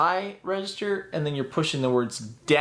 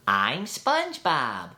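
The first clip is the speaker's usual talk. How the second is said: light SpongeBob; slower than usual. Shown as a demonstration. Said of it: "It's gotta be light".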